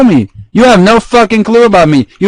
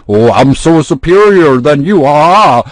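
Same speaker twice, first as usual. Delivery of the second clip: mocking smug voice; slower than usual. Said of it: "other than to say".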